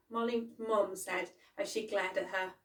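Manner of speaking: ordinary delivery, nothing marked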